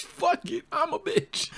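high mock carefree girl voice; high, airy mock bravado; voicing Izzy. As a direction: toss it off like you don't care. Voicing Izzy's carefree attitude.

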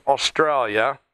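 a brief, hammed Aussie pronunciation of "Australia"; terrible Australian accent. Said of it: "that's a terrible Australian accent".

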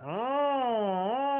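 high pinched twangy ah; an ugly squeezed high ah; pharyngeal sound. Shown as a demonstration. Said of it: "that's not a pretty sound at all".

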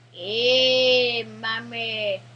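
loud, put-on Indian woman voice; Indian woman accent. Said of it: "It's like an Indian woman accent".

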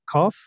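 "Cough" said with a silent U and a long F; pronunciation model. Shown as a demonstration. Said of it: "y la U es muda".

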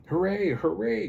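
high, loud storybook hooray; cheering cry. A narrator's reading. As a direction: cheer in triumph for all the toys. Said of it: "cried the funny little clown".

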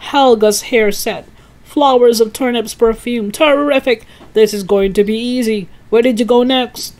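high, loud list-making; bustling, pleased father; excited father. A narrator's reading. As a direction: call out each find with delight.

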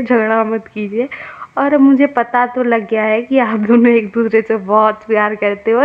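a hint of a firm nurse telling them off; nurse की हल्की डाँट; nurse scolding. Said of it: "तो nurse ना कहती है".

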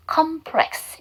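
컴플렉스, ending on an s plus faint eu; complex with added eu vowel. Shown as a demonstration. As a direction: say 컴플렉스 with a light 으 vowel after the final s. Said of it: "음호음 붙여줍니다. 그래서".

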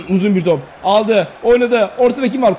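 live football commentator voice; play-by-play. Acted. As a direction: call the game like a TV commentator. Live play-by-play of his game.

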